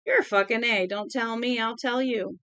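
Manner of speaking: put-on a touch of cocky Southern drunk; lightly slurred Southern comeback; drunken Southern accent. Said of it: "his southern accent grew more pronounced".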